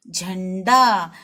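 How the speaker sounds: झंडा stretched very slowly with the nasal sound held; drawn-out word. Shown as a demonstration. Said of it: "अंग की आवाज किस पे आ रही है".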